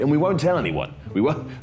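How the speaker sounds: ordinary delivery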